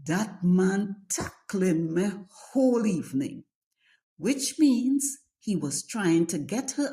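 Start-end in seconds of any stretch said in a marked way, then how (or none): 0.0-3.4 put-on light Trinidadian accent on a quoted line; casual Trinidadian accent. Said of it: "you would hear".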